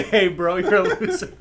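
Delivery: mock blunt put-down. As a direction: blurt the insult out, amused. Mock blunt confrontation, laughing.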